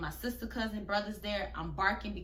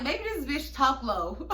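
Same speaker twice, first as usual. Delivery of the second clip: laughing; 4 semitones higher, 5 dB louder than usual. Real, not acted. Laughing aside.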